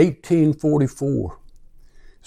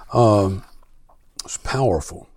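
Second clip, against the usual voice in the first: an awed near-whisper, to himself; hushed aside; 4 semitones lower than usual. Real, not acted. Preacher to congregation before the reading, hushed whisper. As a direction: breathe it out, half to himself.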